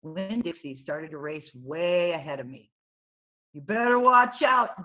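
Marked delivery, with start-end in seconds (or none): 3.5-4.8 loud taunting warning; boy hollering a teasing warning; hollered warning. Acted. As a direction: holler it after her bike. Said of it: "Dunlap hollered".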